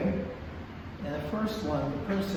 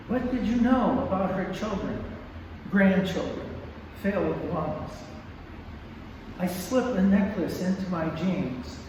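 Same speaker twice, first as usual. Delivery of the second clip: poem reading. Acted. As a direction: read the poem with weight. Reads her poem aloud.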